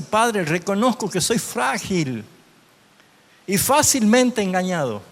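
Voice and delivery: heartfelt model prayer; prayerful reading. Shown as a demonstration. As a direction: pray it aloud as a model for the congregation. Model prayer read aloud.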